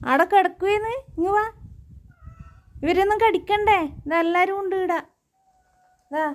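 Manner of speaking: loud, high coaxing call to the dog. Real, not acted. Calling her dog Gunda over to come, loud coaxing. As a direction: lure the dog over, teasing.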